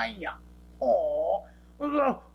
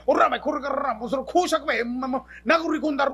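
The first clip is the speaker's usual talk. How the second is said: angry threat; 3 semitones higher, 5 dB louder than usual. Acted.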